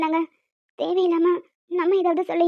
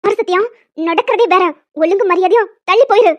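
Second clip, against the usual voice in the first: loud, sharp warning to back off; angry warning; 6 dB louder than usual. Acted. Woman angrily warns Sathya to step back, loud and firm. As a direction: push him away with your voice. Woman fends off pushy fiancé.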